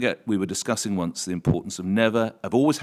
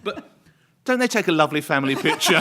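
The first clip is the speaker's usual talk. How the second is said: loud, laughing forced cheer; laughing, trying to rescue the moment; loud mock-cheerful save; desperate save; 5 semitones higher, 8 dB louder than usual. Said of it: "all I could say was".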